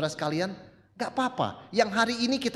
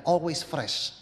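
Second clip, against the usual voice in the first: slow savoured phrase; much slower than usual. Acted.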